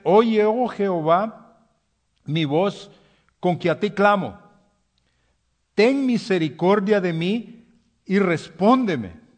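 impassioned psalm plea; fervent prayer cry. Acted.

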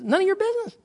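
high, light, kindly rebuke. Acted. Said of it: "basically, very kindly, he says".

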